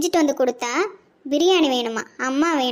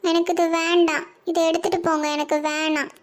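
put-on child voice; 3 semitones higher than usual. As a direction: play a fussy grandson refusing food. Boy pushes food away.

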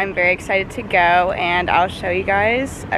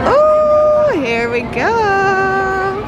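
much higher and louder, stretched out slowly; thrilled squeal; 9 semitones higher, 4 dB louder, much slower than usual. Real, not acted. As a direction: brace for the ride with a gleeful squeal. Ride starting, thrilled.

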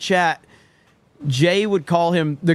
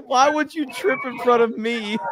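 a higher, outraged yell; mock outraged shout; 6 semitones higher than usual. Retelling a friend's fake outrage, half-shouted. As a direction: feign outrage at a friend for tripping. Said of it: "And then he says".

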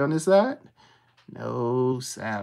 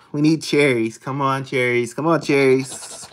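loud, pleading cheer for cherries; yelling at a horse race; 6 dB louder than usual. Real, not acted. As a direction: urge it on like a racing fan. Urging a multiplier to land.

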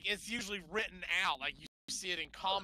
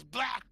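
mock splash sound; 4 semitones higher, 5 dB louder than usual. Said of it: "she goes".

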